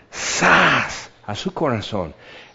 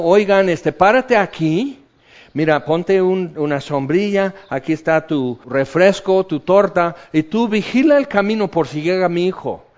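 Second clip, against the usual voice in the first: brisk, raised voice giving servants commands; bossy father's orders; 5 semitones higher, 3 dB louder than usual. Pretend. A father ordering his servants to prepare for his son, raised and brisk. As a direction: play the busy father ordering everyone about.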